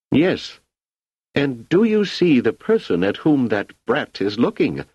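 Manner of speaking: high, agitated imperial voice; an emperor losing his composure; irate emperor. Acted.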